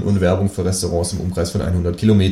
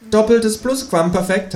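high, drawn-out kangaroo voice; incredulous high creature voice; 14 semitones higher than usual. A narrator's reading. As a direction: ask it as a high-pitched talking kangaroo. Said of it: "das Känguru gefragt".

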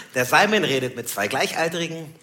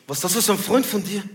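incredulous gangster customer; 4 semitones higher than usual. Retold or imitated. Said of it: "Da meint der Typ".

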